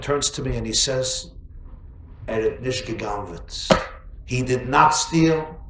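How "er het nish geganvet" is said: quiet calm husband. Acted. Calm husband quoted in Yiddish.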